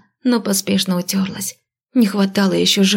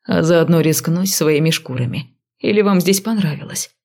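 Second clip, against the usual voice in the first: sarcastic snap; 3 semitones lower than usual. Acted. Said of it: "огрызнулся следователь".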